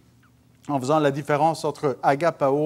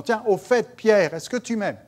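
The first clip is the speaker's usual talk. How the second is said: casual, slightly higher, by-the-way question; offhand question; 5 semitones higher than usual. Acted. Preacher mimics Jesus asking Peter in passing, offhand. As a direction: toss it out as if just remembered. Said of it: "une question qui passe comme ça".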